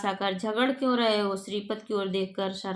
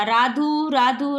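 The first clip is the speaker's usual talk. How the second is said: a raised shout for the servant; calling the servant; 4 semitones higher, 4 dB louder, much slower than usual. Acted. Master summons servant Radhu from the kitchen, loud call. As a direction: call the name loudly across the house. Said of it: "नौकर को आवाज़ देता".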